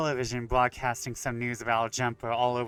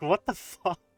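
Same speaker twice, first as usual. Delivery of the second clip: mock confusion, higher pitched; 7 semitones higher than usual. Retelling a ghost's reaction in a game: acting out a confused ghost. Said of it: "confused the ghost so much she just paused like".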